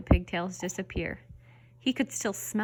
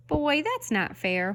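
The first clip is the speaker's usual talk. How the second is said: high, slow whine; whiny pigtail; 6 semitones higher, slower than usual. A narrator's reading. Pigtail whining to Paul that it's unfair, slow and high. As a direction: drag out the complaint like a sulky child. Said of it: "whined the pigtail".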